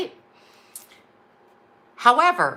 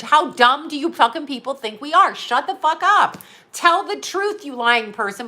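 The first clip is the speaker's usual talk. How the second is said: angry rant; 4 semitones higher, 4 dB louder than usual. Real, not acted. Ranting at a liar on TV.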